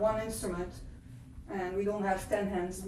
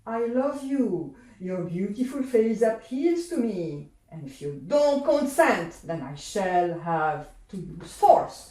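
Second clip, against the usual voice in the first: sweet at first, then threaten; menacing Earl King; 3 dB louder than usual. Acted. Earl King threatens the boy, darkening to a menace. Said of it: "the Earl King".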